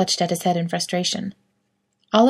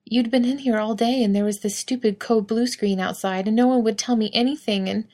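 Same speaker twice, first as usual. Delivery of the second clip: higher, voice tight with tears; fighting back tears, words catching; choked up; 4 semitones higher than usual. Acted. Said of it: "he choked up again".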